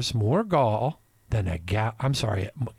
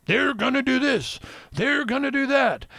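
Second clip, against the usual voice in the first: imitating Sean; 11 semitones higher than usual. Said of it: "he makes an argument".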